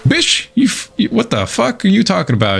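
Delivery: high-pitched retold outburst; retold snap. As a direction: voice leaps up in mock outrage. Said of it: "something in me snapped".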